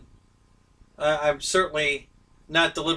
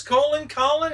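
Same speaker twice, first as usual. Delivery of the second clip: British accent attempt; 9 semitones higher than usual. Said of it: "my British accent interpretation".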